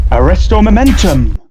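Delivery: high, loud incantation; spell casting. Acted. Co-host casts a charm during the ride re-enactment, spell casting. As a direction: call out the spell with force.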